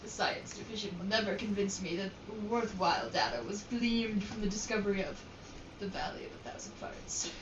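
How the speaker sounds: adventurer voice. Acted. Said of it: "I was using my adventurer voice".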